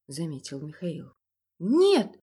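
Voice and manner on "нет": high, loud panicked whining; frightened whimper. A narrator's reading. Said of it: "захныкал испуганно Николай".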